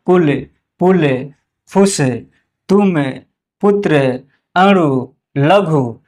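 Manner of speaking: each word from "कुल" to "लघु" short and quick. Shown as a demonstration. Teacher reading short-u examples, each word said quickly. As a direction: read the list with brief u, pausing between words. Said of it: "उच्चारण थोड़ा सा जल्दी हो रहा है".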